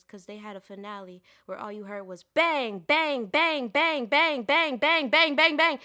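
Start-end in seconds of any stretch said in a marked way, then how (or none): 2.2-5.8 high, rapid-fire shouted BANGs; loud, intrusive bangs. Acted. Poet mimicking the fireworks finale, loud and intrusive. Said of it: "loud and intrusive".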